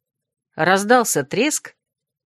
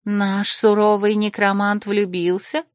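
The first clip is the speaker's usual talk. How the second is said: slow, mildly astonished; a touch of amazed teasing; gasp of surprise; slower than usual. Acted. Krasimirka learns Desmond is in love, mildly astonished. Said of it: "ахнула Красимирка".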